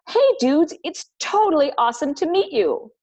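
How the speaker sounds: high, loud surfer-dude greeting; laid-back dude voice. Acted. Teacher voicing Legs greeting the gang, high dude voice. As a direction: greet them like a chill surfer.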